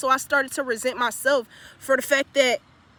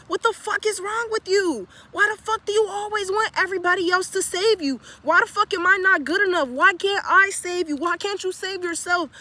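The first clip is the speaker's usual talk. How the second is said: higher, heated scolding from inside his own head; angry inner voice; 5 semitones higher than usual. Retold or imitated. His ego scolding him on the bench, higher and angry. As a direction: let the harsh part of yourself tear into you.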